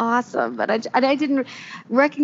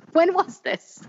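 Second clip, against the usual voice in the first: mock puzzled; 8 semitones higher, slower than usual. Real, not acted. Mocking the odd casting.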